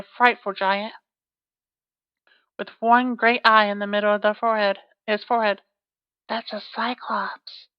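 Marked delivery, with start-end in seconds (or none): 6.3-7.7 aside. Real, not acted. Reader's quiet aside to listeners.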